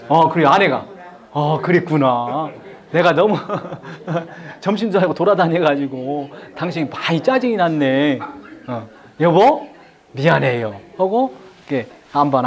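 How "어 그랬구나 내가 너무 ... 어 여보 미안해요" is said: gentle apology. Shown as a demonstration. Husband empathizes and apologizes.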